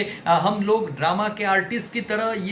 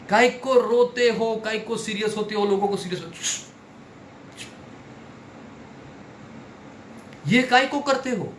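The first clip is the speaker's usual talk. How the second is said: rousing scold; 5 semitones higher than usual. Acted. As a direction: shake them out of gloom. Teacher scolding audience playfully. (ज़ोर से, धीमे झिड़कते हुए)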